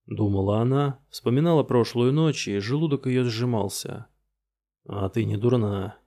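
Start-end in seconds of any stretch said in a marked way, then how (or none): 4.9-6.0 dry. Acted. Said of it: "сухо сказал незнакомец".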